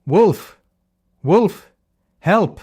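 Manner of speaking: high, loud cry for help that is only a prank; fake alarm shout. Shepherd boy tricking villagers with a loud wolf cry. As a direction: yell to fool the village below. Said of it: "shouted at the top of his voice".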